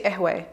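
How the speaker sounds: ehwe with no q at the start, ending in "ay"; Lebanese ehwe. Shown as a demonstration. Explaining Lebanese coffee word, ehwe without the q. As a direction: drop the q, say ehwe as eh-way. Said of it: "'cause they don't pronounce the qaf".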